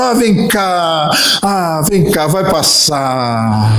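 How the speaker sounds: very slow, tender comforting; soothing mother. Retold or imitated. Mother calming her crying son, slow and tender. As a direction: soothe the child, drawing out each word. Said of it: "e a mãe".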